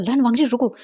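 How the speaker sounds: loud shout after a departing car; calling out. Acted. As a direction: shout for him to stop.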